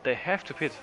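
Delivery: loud commentator. Real, not acted. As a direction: insist over the co-host. Cutting in over co-commentator.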